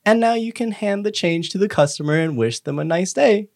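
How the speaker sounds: put-on slow, sing-song voice talking down to kids; lightly voiced cartoon training video lady; kindergarten teacher voice. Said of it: "the two D sprite of what maybe is a woman".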